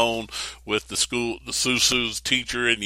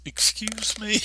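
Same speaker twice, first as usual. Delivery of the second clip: higher, incredulous "Excuse me?"; a young girl doubting the angel; Mary's startled reply; 11 semitones higher, slower than usual. Retold or imitated. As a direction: pitch it up in disbelief. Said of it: "and she says".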